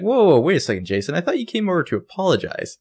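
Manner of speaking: high, pushed-up mock exasperation; half-acted frustration at a baffling guy; exasperated. Spencer pushing back at Jason on her porch, high and exasperated.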